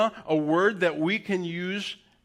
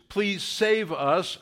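slow plea; 3 semitones higher, much slower than usual. Shown as a demonstration. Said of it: "'Cause it means".

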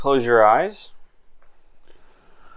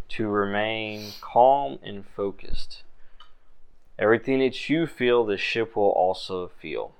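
calm instruction; 4 dB quieter than usual. Acted. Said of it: "he says".

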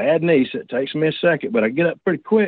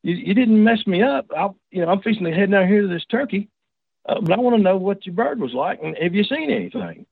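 friendly reassuring call; 6 semitones higher than usual. Retold or imitated. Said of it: "I was wanting to say".

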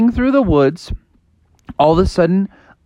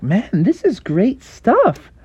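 frog voice; 7 semitones higher, slower than usual. Acted. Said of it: "And Froggy was like".

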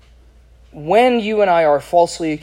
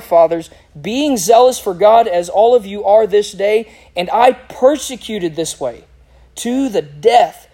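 emphatic scripture reading; 3 semitones higher than usual. Acted. Preacher reading Paul's address to the Jewish crowd, emphatic declaration. Reads Paul's speech aloud.

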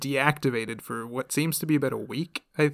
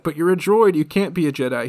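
mock disbelief; 3 semitones higher, 6 dB louder than usual. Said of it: "he's like".

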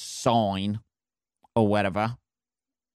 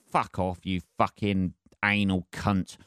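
swearing tirade; 3 semitones lower than usual. Real, not acted. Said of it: "getting a bit aggressive".

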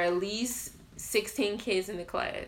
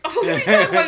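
high loud laughing question; 9 semitones higher, 11 dB louder, much faster than usual. Retold or imitated. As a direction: laugh it off in disbelief. Laughing retort.

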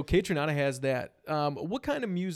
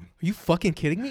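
mock outrage; 3 semitones higher, 6 dB louder, faster than usual. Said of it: "And I'm like".

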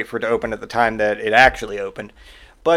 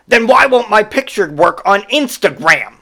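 higher, slow indignant whine; whiny customer; 8 semitones higher, 4 dB louder than usual. Retold or imitated. Customer whines back at the clerk, high and slow. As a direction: whine the question, baffled.

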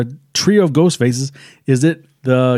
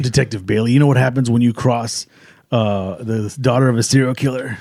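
lightly put-on low menace; a hint of a quiet villain taunt; killer's disguised voice; 3 semitones lower, 3 dB quieter than usual. Host as the killer taunting the detective, lightly disguised voice. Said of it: "she's doing it in the voice".

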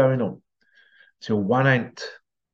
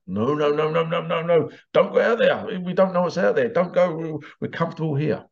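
anxious pleading; 4 semitones higher than usual. Acted. Crabs pulling back the climbing crab.

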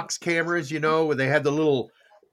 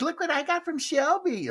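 bright, raised excited voice; excited wife; 11 semitones higher, 4 dB quieter than usual. Retold or imitated. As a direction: gush like a thrilled wife. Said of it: "She goes".

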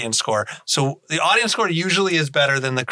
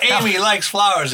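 Bruce Campbell impression; 4 semitones higher than usual. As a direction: slip lightly into a movie star's voice. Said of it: "that's a good impression".

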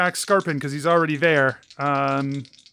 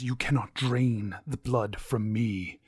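vampire lord voice. Acted. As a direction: speak as an ancient vampire tempting. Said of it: "And he says".

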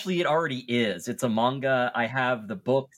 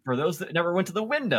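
sarcastic; 5 semitones higher, faster than usual. Real, not acted.

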